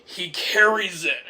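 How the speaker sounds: usual speaking voice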